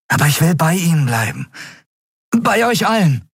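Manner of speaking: hohe, eifrige, bittende Stimme; eifriger junger Miko. Acted. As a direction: eifrig und höflich den Kapitän bitten. (Miko bittet den Kapitän eifrig und hoch)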